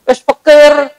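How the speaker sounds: nagging wife. Retold or imitated. Wife scolding husband over killing the horse, mock nagging. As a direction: scold him like an angry wife. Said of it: "Istrinya ngomel-ngomel".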